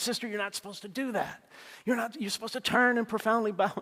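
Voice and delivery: high, mock-stern teasing scold; a playful mock reprimand of the sister; affectionate chiding. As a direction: scold her fondly, half joking. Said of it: "affectionately teasing her and chiding her".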